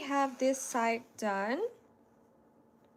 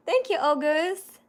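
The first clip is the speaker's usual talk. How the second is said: higher and louder, slow bright thank-you; delighted thanks; 5 semitones higher, 6 dB louder than usual. Real, not acted. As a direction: beam out the thanks to August. Thanking a commenter warmly.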